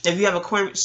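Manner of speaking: talking through a mouthful of almonds; words round a bite of almonds; chewing while talking. Real, not acted. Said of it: "sorry, I'm eating almonds".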